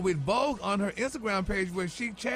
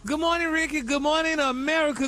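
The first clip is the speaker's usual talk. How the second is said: big radio greeting; 7 semitones higher, 6 dB louder than usual. Acted. Host's big on-air greeting.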